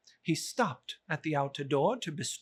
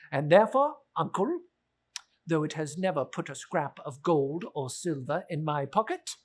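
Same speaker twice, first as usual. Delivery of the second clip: earnest nephew speech; 3 semitones higher, 3 dB louder than usual. Acted. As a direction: make the case for Christmas, rising at the end.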